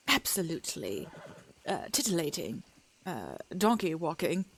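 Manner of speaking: high, slowed mid-Atlantic greeting, a touch theatrical; transatlantic accent. Acted. Streamer greets a newcomer in transatlantic accent. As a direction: greet the room in an old-film transatlantic voice. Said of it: "That is the kind of accent that I was going for".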